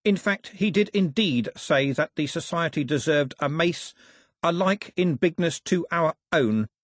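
high, polished courtier's voice; obliging courtier. Acted. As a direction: reassure a king with proper politeness.

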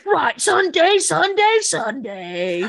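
high, loud, laughing chant of Sunday; too aggressive and chipper. Pretend. Mock-ad riff for her laughing cohost, aggressive and chipper. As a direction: bark out Sunday like a peppy hype man. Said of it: "it got too aggressive and too chipper".

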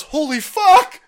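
loud high yelp; mock panicked yell. Biden yelping while running to Marine One, mock yell. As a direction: yelp like he's chased. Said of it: "he goes".

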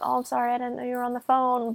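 quick, softly voiced apology; retold apology. Jeff interrupting Gordon on the phone, softly imitated apology.

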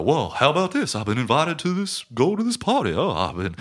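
high, eager and breathless, thrilled at the invite; excited Joe Buck. Retold or imitated. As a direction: gush like a hick who's just been invited to a party. Retelling Joe Buck's excitement.

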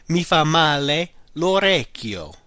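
slow, careful model phrase. Shown as a demonstration. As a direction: lay it out for learners.

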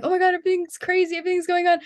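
high, fast imitated freak-out; lightly acted frantic excitement; mock overwhelm. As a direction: rattle it off like an overwhelmed reader. Acting out readers' overwhelmed reaction.

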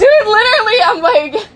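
loud excited outburst; excited shout. Real, not acted. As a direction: blurt it out loud.

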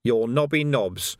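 slow, measured identification; slow and deliberate. Acted. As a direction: lay it out slowly like a charge sheet. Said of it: "Some people might say so".

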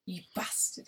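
whispered gruff "You bastard"; Sean Bean impression. Friend echoing the Sean Bean clip in a whispered gruff voice. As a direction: breathe it like a gruff villain. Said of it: "Sean Bean saying".

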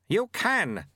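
high, effortful urging; gasping. A narrator's reading. Sweeper urges apprentice on mid-run, gasping. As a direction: push it out high, as if winded. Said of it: "gasped the sweeper".

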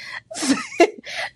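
high-pitched, brief laugh; quick high giggle. Real, not acted. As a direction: let a short, high laugh escape. Laugh heard amid grateful talk.

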